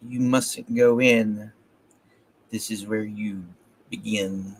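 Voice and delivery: measured, even poetry recital; poem reading. A narrator's reading. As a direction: read the poem with pauses at line breaks. Reads a poem aloud.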